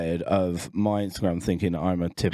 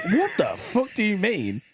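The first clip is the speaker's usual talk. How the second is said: raised, baffled what the fuck; shocked disbelief, pitched up; high incredulous outburst; 10 semitones higher than usual. Retold or imitated. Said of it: "I was like".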